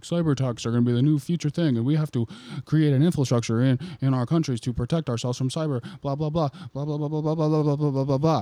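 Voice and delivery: mock speech running into rapid blah-blahs. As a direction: prattle on like a droning official. Mocking retold speech, ends in blahs.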